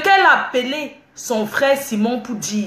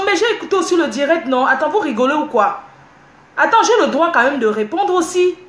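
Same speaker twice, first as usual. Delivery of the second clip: indignant protest; 5 semitones higher than usual. Real, not acted. Defending right to answer commenters.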